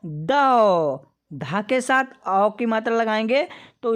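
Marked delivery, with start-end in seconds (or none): 0.0-1.1 दौ said slowly and clearly, d with a long open au; sounding out dau. Shown as a demonstration. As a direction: model दौ for the class. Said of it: "इसका उच्चारण करेंगे".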